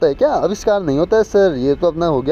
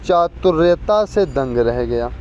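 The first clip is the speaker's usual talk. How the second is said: slow reading; much slower than usual. Shown as a demonstration. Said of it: "दिए गए वाक्य में किस भाग में त्रुटि है?".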